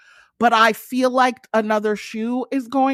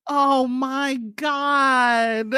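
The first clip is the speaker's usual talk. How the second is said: laughing disbelief; much slower than usual. Real, not acted.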